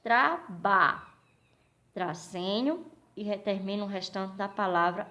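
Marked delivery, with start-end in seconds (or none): 0.0-1.0 "Traba" in firm, separated syllables. Shown as a demonstration. Teacher showing another way to split the word, syllable by syllable. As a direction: sound out "Traba" as two distinct chunks. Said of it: "Você também pode separar o quê".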